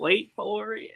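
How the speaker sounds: whispered, ominous tease; teasing whisper. Pretend. Friend teasing what's coming in the book, whispered tease. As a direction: whisper it like a spoiler warning.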